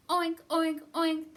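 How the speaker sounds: high, loud pig oinks; hammed-up piglet shout. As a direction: squeal it like an angry pig. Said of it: "that pig did shout".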